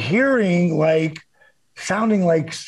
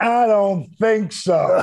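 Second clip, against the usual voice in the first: smug heel taunt; 4 semitones higher, much slower than usual. Retold or imitated.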